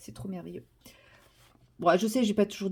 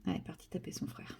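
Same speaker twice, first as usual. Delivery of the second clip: whispering; 12 dB quieter than usual. Real, not acted. Aside about the cat.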